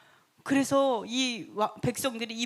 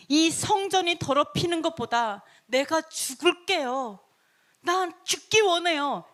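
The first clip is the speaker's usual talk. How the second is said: raised, pleading vow; earnest prayer; 3 semitones higher than usual. Acted. People praying to die before the temple is defiled, earnest. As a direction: offer your life in a mild plea. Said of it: "어떤 마음으로 기도했냐".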